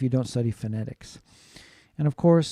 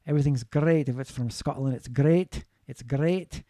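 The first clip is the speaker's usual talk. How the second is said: put-on Scottish accent. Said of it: "speak a little bit more like this".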